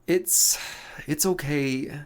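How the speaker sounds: a touch of sobbing, voice catching. Acted. Loxa forgiving Emil while lightly sobbing. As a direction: brave little sob through the words. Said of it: "Loxa sobbing".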